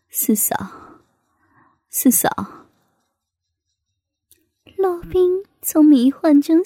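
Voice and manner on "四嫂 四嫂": soft call. A narrator's reading. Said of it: "轻声唤道".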